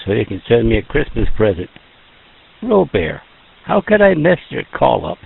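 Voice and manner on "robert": Robert said French-style, ro-BAIR, final t silent; Robert as ro-BAIR, stress on the end, no t; mock-French Robert, ro-BAIR; French-style name. Shown as a demonstration. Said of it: "throw the French in there".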